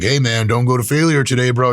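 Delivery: lightly voiced gym bro, a touch of swagger. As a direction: play the pushy gym buddy, lightly. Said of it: "someone could be like".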